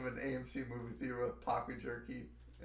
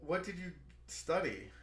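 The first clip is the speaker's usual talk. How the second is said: surprised; 5 semitones higher than usual. Real, not acted. Friend interrupts in disbelief.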